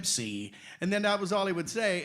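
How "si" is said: low, deadpan one-word reply; terse, much lower straight-faced answer; Mel Blanc. Retold or imitated. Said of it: "Jack would ask him questions".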